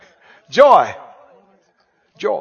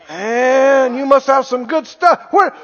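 impressed envious onlooker; 3 semitones higher than usual. Acted. Same envious onlookers, continuing.

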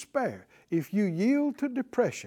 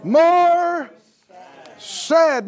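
call and response; 8 semitones higher, 8 dB louder, much slower than usual. Shown as a demonstration. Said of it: "Somebody say".

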